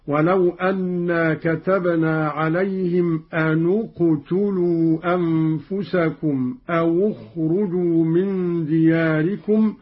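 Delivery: أنُ اقتلوا أوُ اخرجوا with nun and waw voiced as u; damma on nun and waw. Shown as a demonstration. Teacher demonstrates Qalun's reading for students, careful recitation. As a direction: join أن and أو to the next word with a u vowel. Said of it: "بضم النون والواو هكذا".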